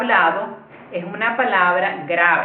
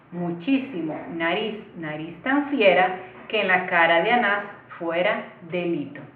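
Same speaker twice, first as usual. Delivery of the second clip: measured recitation of a sonnet; poem reading. Acted. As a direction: read the poem aloud line by line, evenly paced. Reads the poem aloud. (lectura de poema en voz alta)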